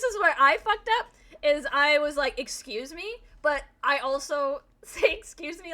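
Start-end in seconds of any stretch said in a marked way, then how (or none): 2.4-3.2 questioning rise at the end; mock-affronted, without raising the voice; retold taken-aback query; incredulous excuse me. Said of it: "like that when I'm angry". 5.1-5.7 higher, restrained indignation; angry excuse me. Shown as a demonstration. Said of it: "like that when I'm angry".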